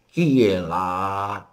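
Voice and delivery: voix traînante, plutôt normale; mémé lente, hauteur habituelle; vraie grand-mère. Acted. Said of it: "t'entends la vioque". (grand-mère lente, sans fausset)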